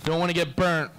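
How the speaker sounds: hammed-up Cali bro; mock surfer bro. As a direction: poke fun at a beach bro. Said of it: "mocking the manager".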